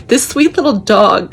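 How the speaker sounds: slow, tearful, voice catching; fighting back real tears; words dragged out on the edge of crying; choking up. Real, not acted. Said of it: "I'm gonna cry again".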